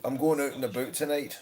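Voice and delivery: a bad, lightly put-on Scottish accent; a rough imitation of a Scottish accent, repeating "I'm going"; crap Scottish accent. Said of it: "my crap Scottish accent".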